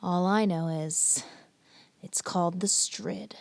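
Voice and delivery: lightly hammed-up TV presenter introduction; dramatic intro. Host introducing the most dangerous stretch of water, mock-dramatic. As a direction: announce it with mock gravity, pausing between phrases.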